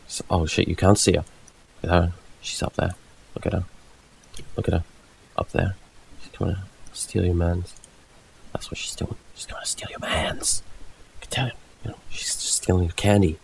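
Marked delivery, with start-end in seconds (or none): 2.4-5.8 hushed gossip whisper. Acted. Streamer whispers a gossip bit. 6.2-12.5 conspiratorial whisper. Acted. Whispered gossip about a rival.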